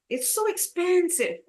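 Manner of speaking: high-pitched example, PEN strongest in "expensive"; stress on second syllable. Shown as a demonstration. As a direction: lean on the middle syllable of "expensive". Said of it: "So second syllable".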